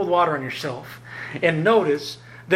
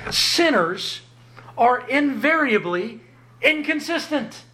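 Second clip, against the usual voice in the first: breathy laugh on "Sinners", then high and slow; laughing punchline; 10 semitones higher, slower than usual. Real, not acted. Preacher laughing as he delivers the punchline. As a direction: chuckle through the verdict.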